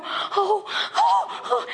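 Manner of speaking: little high-pitched gasps of suspense; mock gasping. Mom watching son's game from afar, mock gasping. Imitates wanting to cheer or cry out.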